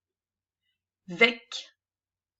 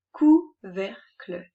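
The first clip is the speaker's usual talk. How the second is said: "Couvercle" drawn out slowly, each sound clear; "Couvercle" said very slowly like a teacher; slow clear model word; 7 dB louder, much slower than usual. Shown as a demonstration. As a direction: stretch "Couvercle" for young readers.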